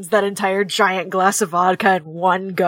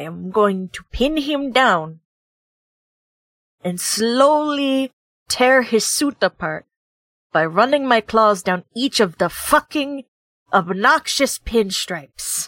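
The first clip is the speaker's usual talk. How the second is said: grumbling put-on Russian accent; 3 semitones higher than usual. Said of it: "someone just grumbles in space Russian. / where someone is like 9 feet tall, / someone comes up to like her knee. / someone just grumbles in space Russian. / But this is honey convention in fishing villag".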